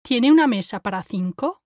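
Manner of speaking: soft unaspirated T in "Tiene"; soft Spanish T. Shown as a demonstration. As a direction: say "Tiene" with tongue on the back of top teeth. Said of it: "compare it to how I say it".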